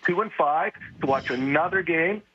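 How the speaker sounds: fed-up, controlled anger; angry venting. Real, not acted. Fan done watching losses in the rain, angry venting. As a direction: vent your anger without shouting. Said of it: "I'm so angry with this team".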